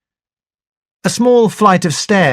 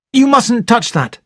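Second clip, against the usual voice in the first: sharp; 8 semitones higher than usual. Acted. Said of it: "I said sharply".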